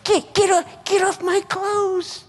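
very high, drawn-out squeal; mock panicked protest. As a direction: squeal at a dog jumping on you. Acting out fending off a dog.

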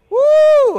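high loud woo; excited whoop. Real, not acted. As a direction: whoop with joy. Excited preacher outburst.

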